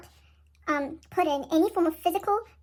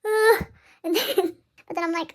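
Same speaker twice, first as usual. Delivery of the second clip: laughing; 2 semitones higher, 4 dB louder than usual. Real, not acted. Laughing at herself.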